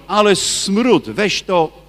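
imitating a possessed man recoiling, not full voice; mock demon yell. Possessed man recoiling from relics, mock slow disgusted cry. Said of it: "kiedyś krzyczał".

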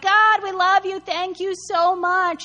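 high, drawn-out mock devotion; hammed-up adoring praise; gushing gratitude. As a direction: gush with exaggerated thanks. Fickle Israelites gushing to God.

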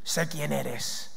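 eerie drawn-out possessed voice; demon voice. Acted. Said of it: "no sé cómo hablaría".

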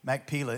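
Machpelah said as mack-PEE-lah, stress on the middle syllable; his own way of saying Machpelah. Shown as a demonstration. Teacher tells the class his own pronunciation, Machpelah as mack-PEE-lah. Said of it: "I'm gonna say it the way I've been saying it forever".

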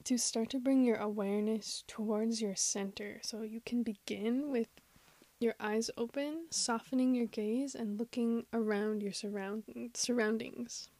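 unhurried meditation guide with long pauses; guided meditation. Acted. Host guiding listeners into awareness of their surroundings, guided meditation. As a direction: guide gently, leaving space after each phrase.

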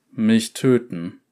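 slow calm challenge; unbothered, measured; cool swordsman voice. Acted. Swordsman faces guards.

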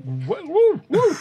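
high whooping celebration; excited cheering. Real, not acted. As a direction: whoop it up after dodging. Player cheers a dodge.

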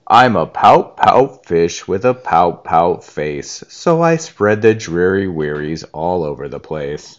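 sing-song the sulky refrain like a grumpy fish; a hint of a sulking fish chanting his refrain; glum pout fish. Fish's repeated refrain.

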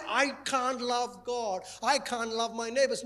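lightly voiced excuse; mock defeated excuse. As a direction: mimic a defeated believer making excuses. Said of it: "Don't say".

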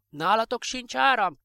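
neighbour calling out. Acted. Neighbours calling across dark street. (szomszéd kiáltása az utcán át, magasabb hangon)

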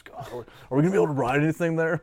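put-on nervous kids. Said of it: "they're all freaking out".

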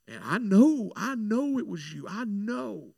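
lightly imitating an insistent woman; mildly insistent pushback. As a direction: insist on it, rising on each "know". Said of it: "she was getting kind of pushed back".

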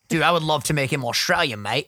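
lightly attempted Australian accent; half-formed Aussie accent. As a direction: try on a casual Australian accent. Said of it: "I try an Australian accent".

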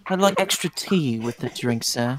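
put-on British tea order; mock British accent. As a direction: play a polite British customer, hammed up. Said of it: "I should not impersonate the British".

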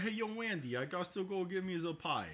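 calling at the window. Retold or imitated. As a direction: call up to the window.

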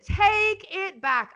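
high, slow retold yell; ordering the client to return the car, mock yell; mock scream. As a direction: bark the order, half acted. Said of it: "I was screaming".

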